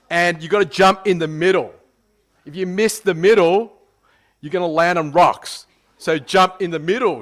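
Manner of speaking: imitating an insistent canyoning guide; instructor's warning. Retold instructor warns before cliff jump.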